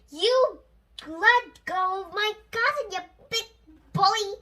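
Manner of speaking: loud, high angry yell at the bully; crying out. A narrator's reading. Lucy shouting at the bully to let go. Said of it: "cried Lucy".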